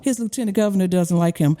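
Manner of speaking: lightly imitated Southern accent. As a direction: quote him with a touch of Southern lilt. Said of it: "he has this beautiful Southern accent".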